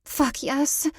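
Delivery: breathy pleasure, yes lifting high; moaning. A narrator's reading. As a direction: let yes rise into a moan. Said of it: "I moaned".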